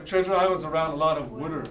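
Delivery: water said as "wooder", in a quick sentence; "wooder" rhyming with "would-er"; Philadelphia "wooder". Shown as a demonstration. Teacher using Philadelphia dialect in a sentence, "wooder" for water. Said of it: "the dialect is wooder".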